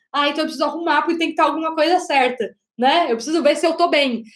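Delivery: quick, lightly voiced anxious self-talk; a hint of a fretting inner voice, fast; insecure inner voice. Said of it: "a gente acha que tem alguma coisa errada".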